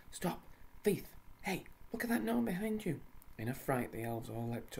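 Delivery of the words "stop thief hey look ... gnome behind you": high, loud warning yell; loud shout. Acted. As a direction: shout to stop the robber. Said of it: "He shouted loudly".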